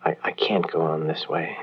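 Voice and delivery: hushed, breathy lover's whisper; a desperate whispered plea into the phone; secret whisper. Acted. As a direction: whisper so no one overhears.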